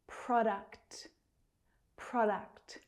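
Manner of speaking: Product with both k and t released at the end; careful teacher's model of Product, ending fully articulated; final consonants sounded. Shown as a demonstration. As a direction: finish Product on a crisp kt. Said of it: "pronouncing the last two consonant sounds".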